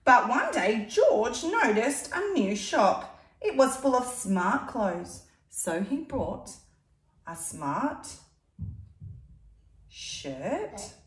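put-on lively read-aloud to a child; storybook reading voice; story narration. A narrator's reading. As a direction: tell it like a picture book. Reading picture book aloud.

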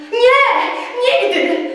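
loud, high cry of refusal; exclaiming. Acted. Tadeusz cries out his refusal to Telimena. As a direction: cry out no, never. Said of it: "zawołał Tadeusz".

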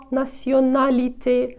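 націоналіте slowly, with plain N sounds; no nasalisation. Shown as a demonstration. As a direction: draw out націоналіте with oral vowels. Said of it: "то в нас також немає носової вимови".

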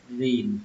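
"rìn" with the vowel drawn out a little; drawn-out "rìn" for students; stretched syllable. Shown as a demonstration. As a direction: lengthen the i in "rìn" slightly. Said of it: "hơi kéo nó ra một chút".

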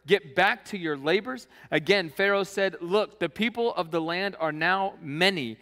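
preacher reading Exodus aloud; scripture reading. Acted. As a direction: read the passage to the congregation. Reads scripture passage aloud.

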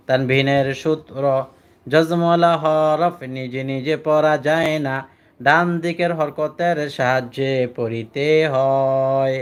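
slow, measured recitation of the rule; recited rule. Shown as a demonstration. Teacher to students, reciting the rule slowly to memorize. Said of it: "আমার সাথে বলেন".

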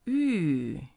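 Yu falling sharply; fourth tone yu. Shown as a demonstration. Teacher models the falling fourth tone. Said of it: "And fourth one".

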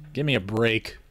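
said through a yawn. A narrator's reading. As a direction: yawn while saying it. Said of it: "I yawned".

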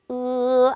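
으 as a single held sound, loud; Chinese e. Shown as a demonstration. Teacher models 으 for students, loud and steady. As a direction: model 으 as one pure sound. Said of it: "하나의 소리로".

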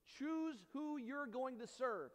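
stirring plea. Acted. Joshua pleading with the people to choose, slow and stirring. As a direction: draw it out as an urgent plea. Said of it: "gives a plea to them".

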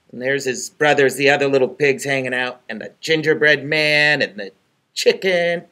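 ordinary delivery

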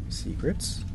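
soft rising question; quietly intrigued; curious question. Real, not acted. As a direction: ask it softly, pitch lifting. Finding a hidden area.

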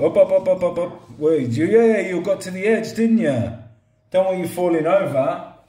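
talking to a pet. Real, not acted. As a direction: fuss over it like a little dog. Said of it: "talking to him like a bloody pet".

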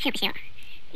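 whispered aside to self. Real, not acted. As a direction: breathe it out, unvoiced. Quiet aside while playing.

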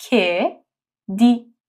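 کدی stretched very slowly; slow syllable demo. Shown as a demonstration. (کدی آهسته و کشیده)

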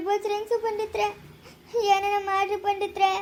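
desperate weepy entreaty; plead, close to sobbing; tearful plea. Acted. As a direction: beg through tears. Begs pandit to save dead woman.

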